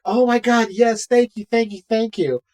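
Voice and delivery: retold gushing relief. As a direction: imitate a crowd gushing with thanks. Retold panicked crowd thanking officer.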